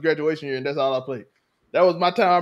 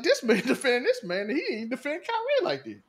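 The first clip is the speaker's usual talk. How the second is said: laughing quote; 6 semitones higher, 4 dB quieter than usual. Retold or imitated. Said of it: "I was like".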